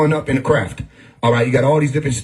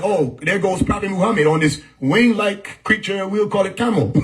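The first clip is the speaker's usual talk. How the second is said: mock Arab accent; 6 semitones higher than usual. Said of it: "I don't know y'all accent yet of Arabs".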